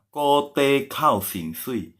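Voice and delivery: "kote kao xin sui" very slow, syllable by syllable; careful, drawn-out demonstration of "kote kao xin sui"; slow model phrase. Shown as a demonstration. Teacher models the phrase slowly.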